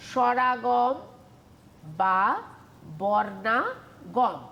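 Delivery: বর্ণাগম drawn out very slowly; slow and clear. Shown as a demonstration. Teacher to students, drawing a term out slowly. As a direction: spell out বর্ণাগম slowly for the class.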